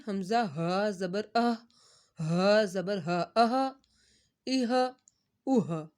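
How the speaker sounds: teacher shows the low-throat ہا. Shown as a demonstration. اہا breathed deep from the throat. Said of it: "حلق کے نیچے والے حصے سے".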